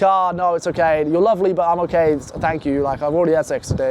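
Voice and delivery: politely letting her down; mock polite refusal. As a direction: play it off nicely, apologetic. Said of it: "So you have to be polite".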